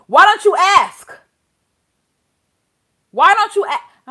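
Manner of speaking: loud, high exasperated demand; real yelling. Real, not acted. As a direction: yell it in outrage at the judge. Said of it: "I'm sorry, I'm yelling".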